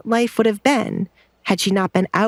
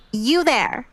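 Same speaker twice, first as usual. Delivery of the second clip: calling out; 5 semitones higher than usual. A narrator's reading. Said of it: "Kate called out".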